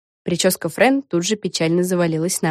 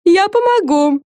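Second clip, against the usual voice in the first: hissed; 12 semitones higher, 5 dB louder, slower than usual. A narrator's reading. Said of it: "прошипела Френ".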